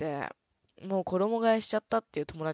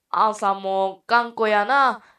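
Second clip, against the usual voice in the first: very loud put-on Kansai accent; 11 dB louder than usual. Talking to a Kansai-dialect hostage-taker about releasing hostages, fake Kansai accent. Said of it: "自費関西弁で説得する様子を演じてみてください".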